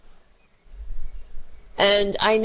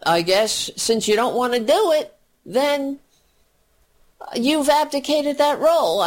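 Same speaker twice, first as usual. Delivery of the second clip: defiant Obama. Pretend. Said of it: "what Obama should have said was".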